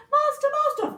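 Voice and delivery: high, loud desperate cry for help; panicked harp calling. Acted. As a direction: shriek for your master.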